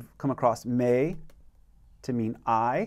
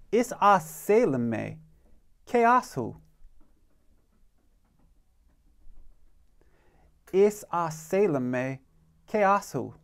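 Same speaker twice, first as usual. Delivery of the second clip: raised, higher-pitched teaching line; modelling for repetition; 4 semitones higher than usual. Shown as a demonstration. Teacher leading a class in practice, raised model voice. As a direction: lift the voice for learners to copy. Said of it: "I want you to practice by saying".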